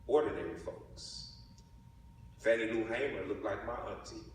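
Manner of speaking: measured poetic delivery with weighted key words; spoken-word poem. Acted. Poet honouring Black power to an audience, spoken-word recital. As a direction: recite it in phrases set apart by deliberate pauses.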